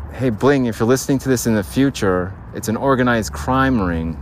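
clear, bright redo of the message to Bling; proper take. Shown as a demonstration. Redoing the bit for future Bling, clearer. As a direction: say it up front this time. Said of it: "There we go. It's gonna sound like that".

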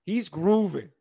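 hyped. Real, not acted. Repeating hype about friend.

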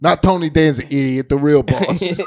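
mob boss character. Acted. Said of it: "that's my new character".

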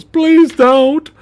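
high-pitched, drawn-out begging; pleading prison guard. Acted. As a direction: beg like a terrified victim, hammed up. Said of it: "And the guy goes".

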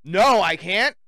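loud, emphatic no. Real, not acted. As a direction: bark the answer. Angry answer to himself.

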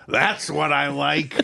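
slow dry sarcasm; sarcastic. Retold or imitated. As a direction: say it sarcastically, slowly. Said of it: "Eric sarcastically started applauding".

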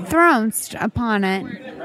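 "thronst" slowly, as one long syllable ending in -nst; odd pronunciation. Pretend. Host showing off her odd word, "thronst" pronounced slow and affected. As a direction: draw out "thronst", landing on the final st. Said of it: "I pronounced it twice".

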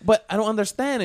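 lightly voiced Hispanic lady, confused; Hispanic accent. Older lady confused at post office counter, light Hispanic accent. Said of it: "I can do this accent".

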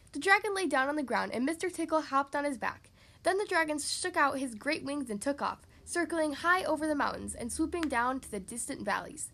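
measured, lively storybook reading; story narration. A narrator's reading. Reading a picture book to children, lively story narration. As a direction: read it out clearly to young listeners.

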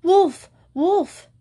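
high, loud cry of wolf; terrified shout. A narrator's reading. Shepherd boy shouting to the village in terror, loud and high. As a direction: scream it in real terror.

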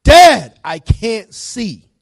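loud, high opening on Dad, then drawn out; alarmed cry. Retold or imitated. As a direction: cry out to dad like a frightened son. Retold son crying out in emergency.

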